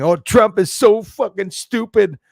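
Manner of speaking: mocking troll quote. Streamer mimics troll Cooper B insulting Trump, slow loud sneer. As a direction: parody the troll's scorn. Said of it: "So Cooper B is saying".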